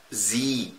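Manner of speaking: زي ممدودة ببطء; مد الإي في زي شوية; long ie. Shown as a demonstration. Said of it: "مديها شوية". (نطق زي بإي ممدودة)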